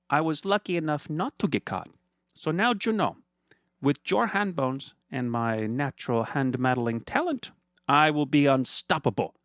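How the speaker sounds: high, sugary mock-friendly villain voice; smug villain Fernando. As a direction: purr at him like a gloating rich villain. Fernando gloats.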